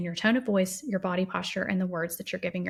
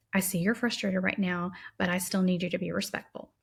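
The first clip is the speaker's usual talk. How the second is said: calm firm parent; 3 dB quieter than usual. Shown as a demonstration. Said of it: "try statements like".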